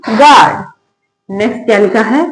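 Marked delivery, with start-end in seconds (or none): 0.1-0.6 गार्ड said as "gaard", no U sound; silent U. Shown as a demonstration. Teacher reading out the spelling for learners, गार्ड with silent U. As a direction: model गार्ड with the U left silent. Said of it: "यू को नहीं पढ़ेंगे".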